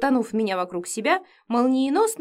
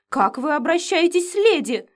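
1 sniffling complaint; 7 semitones higher, 4 dB louder than usual. A narrator's reading. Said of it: "всхлипнула я".

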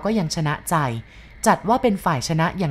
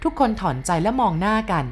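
ordinary delivery, nothing marked

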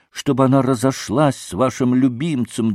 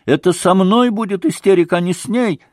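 higher and louder, close to hysterics; a girl working herself up to a fit; lightly voiced young girl crying out to her mother in agitation; agitated girl; 7 semitones higher, 4 dB louder than usual.

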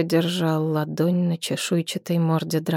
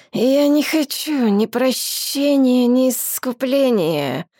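dragon voice; 7 semitones higher, slower than usual. A narrator's reading. Dragon speaks in menacing voice.

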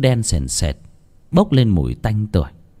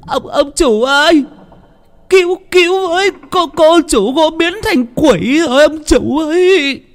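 much higher, louder, panicked stammering cry; terrified scream; 5 dB louder than usual. A narrator's reading. Cook screaming for the master, terrified and shrill. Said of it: "Bà bếp hét lên".

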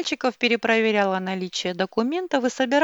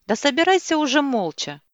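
sharp, louder snap, higher pitch; sharp retort; 6 semitones higher, 4 dB louder than usual. A narrator's reading. Husband cuts off his wife, sharp angry retort. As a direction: cut her off sharply. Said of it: "резко перебил её речь папа мальчиков".

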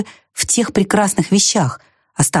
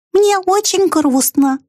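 high and slow, weight on Мне; sad mouse voice; 12 semitones higher, slower than usual. A narrator's reading. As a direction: stress Мне, drawn out in a tiny voice. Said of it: "сказала она". (грустный мышиный голосок, ударение на «Мне»)

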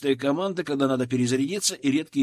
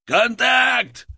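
loud, much higher yell; battle shout; 9 semitones higher, 7 dB louder than usual. A narrator's reading. Sapper yelling contact as enemies appear. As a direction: shout the warning to the squad. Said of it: "первым заорал сапёр".

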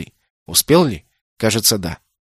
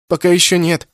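sobbing; 6 semitones higher, 4 dB louder than usual. A narrator's reading. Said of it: "всхлипнул мальчик".

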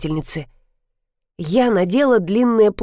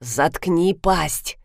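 cold order; 4 semitones lower, 3 dB quieter, much slower than usual. Acted. Husband cuts off wife.

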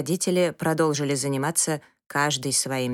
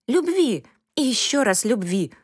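tearful plea; 7 semitones higher than usual. A narrator's reading. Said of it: "младшая в слезах".

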